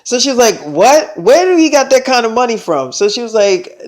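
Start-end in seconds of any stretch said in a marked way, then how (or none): 0.6-2.9 acted-out shocked questioning, pitched up; mock disbelief, voice jumping up; incredulous. Friend hears about the money, incredulous.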